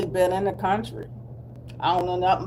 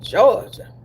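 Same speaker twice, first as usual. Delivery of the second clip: Georgia in a put-on Southern accent; playful Southern pronunciation of Georgia; 2 semitones higher, 5 dB louder than usual. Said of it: "man, that's Southern".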